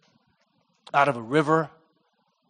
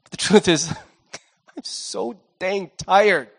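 weary confession. Retold or imitated. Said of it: "And he says".

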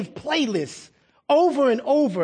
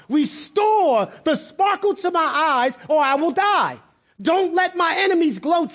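desperate, not nice; 5 semitones higher than usual. Acted. David facing death cries to God, high desperate demand. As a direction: plead urgently, without niceness. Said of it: "He didn't say that nice to God".

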